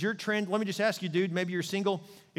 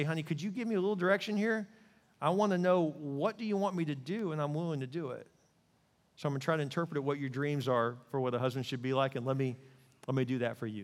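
softer, tender request to his wife; gentle husband; 3 dB quieter than usual. Retold or imitated. Husband asks his wife what she wants, tender. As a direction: ask her kindly for direction.

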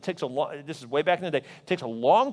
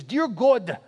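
put-on Zaire accent child's prayer; 3 semitones higher than usual. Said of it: "in the beautiful accent of Zaire".

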